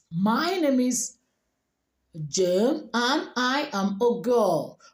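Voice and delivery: slow, careful native-speaker English accent; native-speaker English lilt, drawn out. Shown as a demonstration. Teacher models the same introduction, native English speaker accent. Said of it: "sounding like a native speaker".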